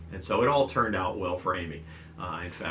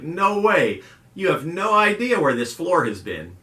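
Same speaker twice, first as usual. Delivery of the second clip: higher, louder grossed-out protest; disgusted refusal; 8 semitones higher, 7 dB louder, slower than usual. Retold or imitated. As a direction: recoil from the floor strawberry. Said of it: "And she's like".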